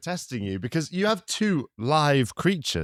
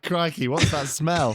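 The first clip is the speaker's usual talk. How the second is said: mussels' voice; 2 semitones higher, slower than usual. Pretend. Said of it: "The mussels were like".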